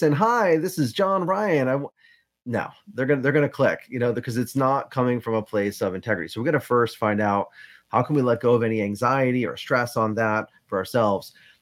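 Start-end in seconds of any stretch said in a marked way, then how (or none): 0.1-1.9 high, very drawn-out, slow fake radio announcer voice. Warning against sounding inauthentic, demonstrating a fake radio voice. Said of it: "trying to put on your radio voice".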